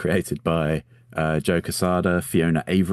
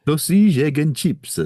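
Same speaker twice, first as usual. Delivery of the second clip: emphatic repeat; 10 semitones higher, 6 dB louder than usual. Acted.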